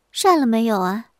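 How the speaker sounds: wife's pointed question; 瞪眼追问. Acted. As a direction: put it squarely to the guest. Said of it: "乔氏头一抬， 眼一瞪， 问". (瞪着眼直接追问)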